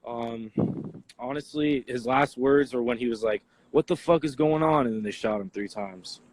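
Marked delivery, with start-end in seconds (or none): 3.7-4.9 raised, mildly yelled question; retold yell. Eyewitness quoting the victim's last words, mild retold yell. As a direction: imitate someone yelling in alarm. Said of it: "Yeah, he yelled it".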